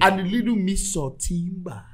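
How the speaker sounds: relishing it in a Nigerian accent. Shown as a demonstration. Fan seasoning his dish of signings, Nigerian accent. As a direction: add the ingredient in a Nigerian accent. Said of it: "let me speak in my Nigerian accent".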